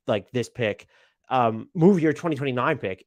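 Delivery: real stammer, tripping over words; stumbling, halting delivery. Real, not acted. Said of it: "I'm stammering here".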